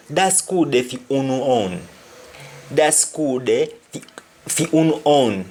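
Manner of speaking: "fi unu own" in Jamaican patois, "unu" for you all; patois phrase said as a model. Shown as a demonstration. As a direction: Jamaican patois, teacher's demo. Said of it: "Which means yours".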